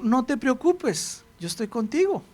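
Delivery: put-on calm the worried child; quiet divine reassurance; reassuring God.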